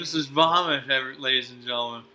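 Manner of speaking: talking through a mouthful of jelly bean; chewing a jelly bean. Real, not acted. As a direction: mouth full, still chewing. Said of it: "I gotta finish my earwax bean first".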